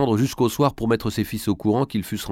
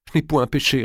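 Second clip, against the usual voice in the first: higher, indignant retort; vehement denial; 6 semitones higher than usual. A narrator's reading. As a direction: fire back in protest. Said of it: "répondit Marie avec violence".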